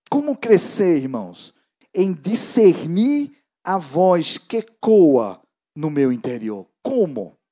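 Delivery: ordinary talk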